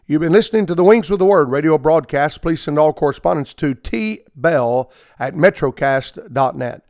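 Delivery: quick, brisk announcer read; radio sign-off. Acted. Radio preacher signing off to listeners, brisk announcer read. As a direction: rattle off the closing credits.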